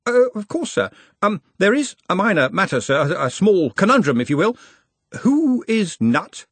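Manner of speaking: the nervous clerk edging a question out; fretful junior, pitched well up; anxious young wizard. Acted. Ponder voiced in audiobook.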